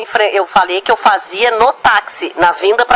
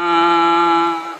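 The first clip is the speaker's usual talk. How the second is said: closed-lip hum; 2 semitones lower than usual. Real, not acted. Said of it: "Podem fazer daí mesmo".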